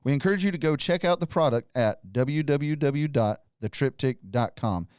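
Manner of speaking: scripted podcast ad read; sponsor read. Acted. Host reads the sponsor message to listeners, sponsor read.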